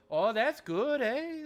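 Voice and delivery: put-on Irish accent. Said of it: "they'll be like".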